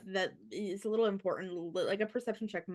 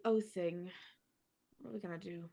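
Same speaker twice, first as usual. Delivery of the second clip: lightly mumbled, trailing off much softer; acted mumble; 2 semitones lower, 6 dB quieter than usual. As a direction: let it sink into a half-mumble. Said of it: "And he just mumbled, like".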